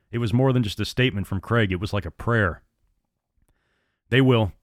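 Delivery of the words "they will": grim. Acted. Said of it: "Farver answered grimly".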